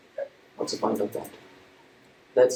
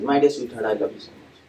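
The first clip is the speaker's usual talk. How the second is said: same line again; 3 semitones lower than usual. Acted. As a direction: say it again by rote, letting it fade. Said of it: "next day he sees this".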